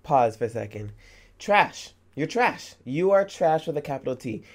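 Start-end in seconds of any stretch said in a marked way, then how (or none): 1.4-4.4 sharp, disgusted jabs at the mother; contemptuous insult. Real, not acted. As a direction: spit the word trash out with scorn. Streamer insults game mother.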